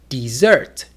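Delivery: "dessert" stressed on the last syllable; di-ZERT, weight on the end of "dessert"; stress on second syllable. Shown as a demonstration. Teacher contrasting two words, "dessert" stressed at the end. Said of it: "Syllable focus can create intonation".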